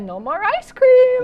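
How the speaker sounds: slow, high, loud mock ban; stern decree. Imitating Michelle taking away ice cream, slow mock-stern. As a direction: lay down the law like a strict first lady. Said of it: "she said".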